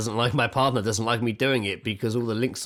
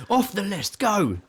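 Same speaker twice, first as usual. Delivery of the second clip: higher, brisk mock announcement; brisk self-order; 11 semitones higher than usual. Dad removing the paint book, higher brisk checklist voice. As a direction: tick it off like a checklist. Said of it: "And I was like".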